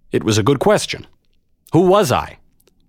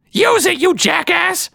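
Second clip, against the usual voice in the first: impatient hiss. Acted. Maud hisses impatiently.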